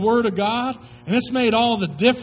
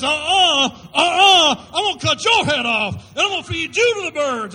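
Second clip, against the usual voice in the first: defiant shout; 2 semitones higher, 3 dB louder than usual. Retold or imitated. David answering the giant's threat.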